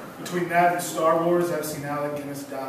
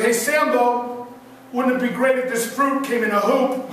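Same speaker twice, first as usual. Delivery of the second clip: evil toucan; 6 semitones higher, 3 dB louder, slower than usual. Acted. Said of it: "I was like".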